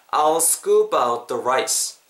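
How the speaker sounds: "I'll scoop out the rice" slow, words linked; repeat-after-me model. Shown as a demonstration. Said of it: "따라해 보세요". ("I'll scoop out the rice"를 따라 하기 좋게 천천히)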